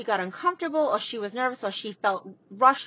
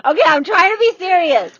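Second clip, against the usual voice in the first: trying not to laugh; 6 semitones higher, 13 dB louder than usual. Real, not acted. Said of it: "you're not allowed to laugh and you wanna laugh".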